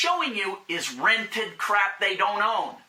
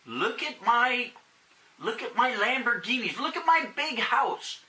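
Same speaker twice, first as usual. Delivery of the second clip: show-off voice; 4 semitones higher than usual. Retold or imitated. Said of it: "anybody that comes out and says".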